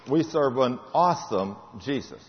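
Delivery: We said slow and soft, falling; tender affirmation to the folks. Acted. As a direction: let it sink in gently.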